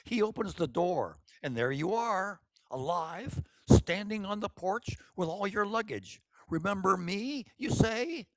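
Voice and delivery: put-on an older sister pushing her timid sister to be bold; bossy older sister. Bossy, eager older sister. Brave Orchid's long scheming speech.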